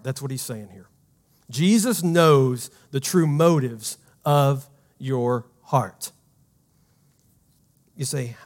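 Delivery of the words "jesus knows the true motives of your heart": slow, every word spaced for note-taking; slow dictation pace. Shown as a demonstration. Pastor slowly dictates the key line to the congregation, slow and deliberate. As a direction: say it slowly so they can write it down. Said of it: "and you can write this down".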